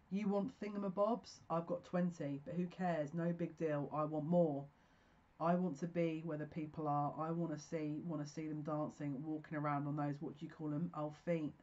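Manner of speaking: reciting song lyrics with feeling; lightly acting out Ariel's lines; lyric recital. Reciting the Little Mermaid lyrics to viewers, lightly dramatic.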